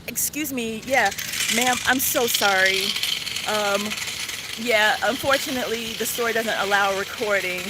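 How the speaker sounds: polite apology. Shown as a demonstration. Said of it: "addressed properly".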